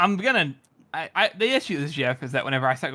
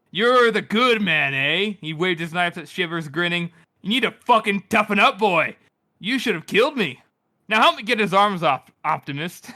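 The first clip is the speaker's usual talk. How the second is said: Logan as the Bloody Nine. Retold or imitated. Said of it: "rendition of Logan's voice ... more coarse, more rough, more cold".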